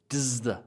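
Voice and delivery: "Does the" run together as "duz-thuh"; weak does the. Shown as a demonstration. Teacher modelling weak forms, "Does the" reduced and linked. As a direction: blend "Does the" into one reduced chunk. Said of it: "I can literally say does the".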